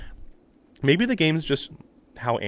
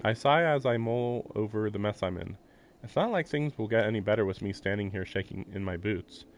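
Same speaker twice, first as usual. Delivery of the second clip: story narration; 3 dB quieter than usual. A narrator's reading. Streamer reading the game text aloud, calm narration. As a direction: evenly read game narration. Reads visual novel narration.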